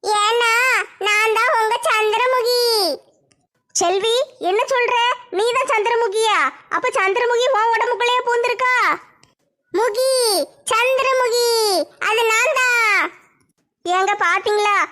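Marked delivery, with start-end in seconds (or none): 0.0-2.6 wailing ghost. Acted. Ghost declares itself. 9.7-13.0 wailing ghost. Acted. Ghost declares itself.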